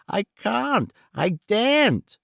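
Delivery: high, slow, frightened refusal; terrified old miser. A narrator's reading. Arthur terrified.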